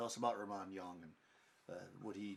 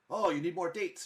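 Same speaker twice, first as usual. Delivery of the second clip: loud, higher, insistent offer; fussing hostess; 8 semitones higher, 11 dB louder than usual. Acted. Wife pushing dates on the guest, loud and high. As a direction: press food on the guest.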